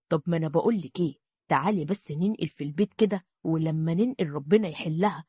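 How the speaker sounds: a hint of a greedy man warming to the idea; scheming husband.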